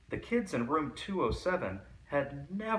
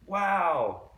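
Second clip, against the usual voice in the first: higher and louder gleeful whoop; excited yell; 7 semitones higher, 6 dB louder than usual. A narrator's reading. Kids cheering their absent teacher, excited whoop. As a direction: cheer like kids set free. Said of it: "yelled the kids".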